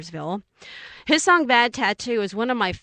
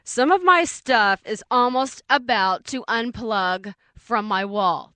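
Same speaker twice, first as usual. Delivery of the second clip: retold alarm; 5 dB louder, slower than usual. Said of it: "you're just kind of sitting there going".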